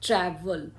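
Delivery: "ट्रैवल" leaning on ट्रै; first-syllable stress. Shown as a demonstration. Teacher showing where stress falls, first syllable stressed. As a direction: stress the opening syllable of "ट्रैवल", let the second fall away. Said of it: "stress first syllable पर".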